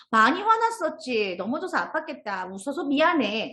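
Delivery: mild acted sympathy; gentle apology. Friends apologising to the child who fell, gently acted. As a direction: draw out the first words in a consoling apology.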